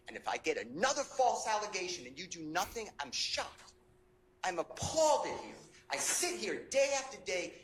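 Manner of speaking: rising outrage at the judge; indignant protest. Real, not acted. Attorney protesting to the judge, indignant and appalled. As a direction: protest the false accusation, voice climbing.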